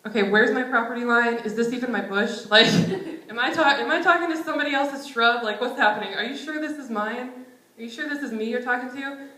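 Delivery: laughing, flustered self asking God; flustered disbelief. Pretend. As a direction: pretend panic at a talking bush. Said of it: "I think I'd be like".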